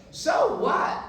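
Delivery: "So what?" shouted high, loud on "So"; emphatic shout. Shown as a demonstration. Preacher shouting his catchphrase to the crowd. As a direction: fling it out with a laugh in the voice.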